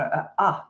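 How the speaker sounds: short vowel a, as in "a" of kit; short a sound. Shown as a demonstration. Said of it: "What is a, you know".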